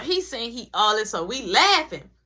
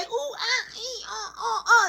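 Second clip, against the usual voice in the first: mock groans; 10 semitones higher than usual. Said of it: "He didn't say".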